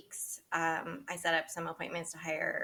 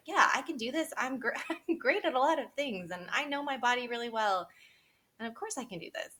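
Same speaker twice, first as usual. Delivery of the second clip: confident; 6 semitones higher than usual. Retold or imitated. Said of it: "on this road of like".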